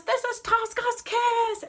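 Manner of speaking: high, loud, drawn-out operatic declaration; dramatic cry. Retold or imitated. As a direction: proclaim it as an avenging opera heroine. Acts Tosca stabbing Scarpia.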